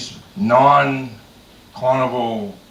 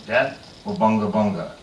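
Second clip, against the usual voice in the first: chief; 8 semitones lower than usual. Retold or imitated. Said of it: "the chief says to me".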